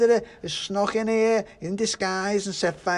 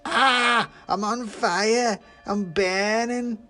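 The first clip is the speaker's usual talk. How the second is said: high, loud, drawn-out wail; burning pudding screaming in alarm; panicked screaming; 11 semitones higher, 6 dB louder, much slower than usual. A narrator's reading. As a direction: shriek it as if ablaze. Pudding has been set alight.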